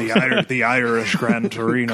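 lightly imitated Irish tough guy; joking screen tough-guy voice; Clint Eastwood. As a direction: put on a hint of the Gran Torino star. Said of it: "like, this lower".

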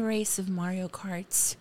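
hushed storytelling whisper. Acted. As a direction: whisper it like a secret. Dramatic story aside.

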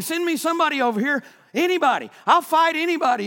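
loud, high mocking challenge to the armies; taunting giant. Giant taunting Israel's armies, loud mocking challenge. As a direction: bellow a giant's dare across the valley.

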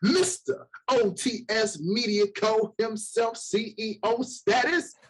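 hype announcer. Acted. Hype introduction of cohost.

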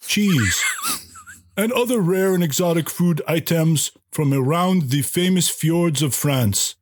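badly faked French accent with dramatic pauses; mock French accent. Restaurant host pitches his crepe buffet, in a mock French accent. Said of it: "I do a really good French accent".

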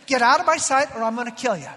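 loud mock threat from a mother; exasperated acted scolding; angry mom. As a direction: imitate a mom at the end of her patience. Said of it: "had your mom say something like that".

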